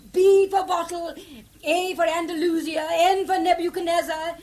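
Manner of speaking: spelling out letters loudly. Acted. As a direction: call each letter down the line. Spelling loudly on bad line.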